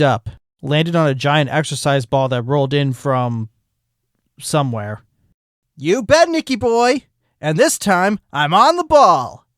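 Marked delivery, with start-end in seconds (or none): 5.8-9.5 higher, perky sloth coach; eager fitness-coach sloth; eager Flash. Acted. Flash voiced by narrator.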